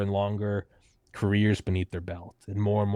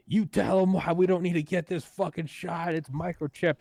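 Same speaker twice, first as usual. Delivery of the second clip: mocking angry commenter; 9 semitones higher than usual. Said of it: "from both sides of, like".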